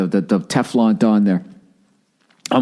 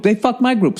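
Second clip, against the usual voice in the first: mock whiny complainer; 11 semitones higher than usual. Comic mimicking cheated fans, whining once more. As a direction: repeat the high whine, "my" leaned on again. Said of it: "just us complaining".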